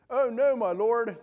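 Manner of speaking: high, loud, slow cry of alarm; hammed-up panic. Frightened servant crying out to his master in hammed-up panic. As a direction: ham up the frightened servant like a cheap movie. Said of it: "Sounds like a cheap Hollywood movie".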